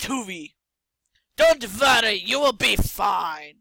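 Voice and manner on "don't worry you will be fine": mock reassurance.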